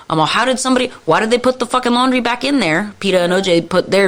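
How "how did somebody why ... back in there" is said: higher-pitched exasperated questioning; mildly indignant, pitched up; retold indignation. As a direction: replay a baffled, fed-up complaint.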